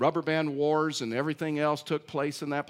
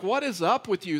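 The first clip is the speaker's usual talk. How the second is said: higher, louder puzzled question; 5 semitones higher, 4 dB louder than usual. Retold or imitated. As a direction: ask why everyone is clapping. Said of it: "And I'm like".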